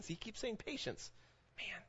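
breathy aside whisper. Real, not acted. Preacher whispering an aside to the congregation.

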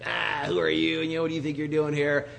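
mild imitation of yelling down from upstairs; mock yell. Queen calls from an upper story to the invader, mild mock yell. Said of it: "yells out to him".

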